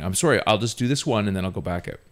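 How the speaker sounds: mild, apologetic reply, settling down; nice about it. Retold or imitated. Teenage dishwasher placating his boss, apologetic. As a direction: say it politely and without heat. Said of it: "nice about it".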